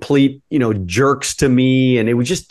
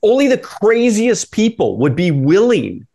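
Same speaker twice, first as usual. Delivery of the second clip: half-laughing, pumped up at the thought; building excitement, voice climbing high; excited realization; 3 semitones higher than usual. Retold or imitated. Excited inner thought retold.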